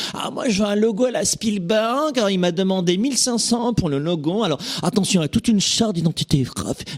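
high, affected mock grandeur; pretentious logo buyer.

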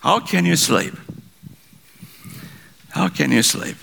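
captain's shout. Retold or imitated. Captain challenging the sleeping passenger, mildly shouting. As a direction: call out the rebuke, half-shouted and falling. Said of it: "he shouted".

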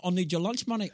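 put-on Maori accent. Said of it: "got my Maori accent down".

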